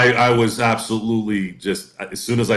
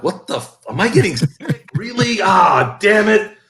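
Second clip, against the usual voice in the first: retold alarm; 10 semitones higher, 6 dB louder, slower than usual. Retelling realizing he's getting sick.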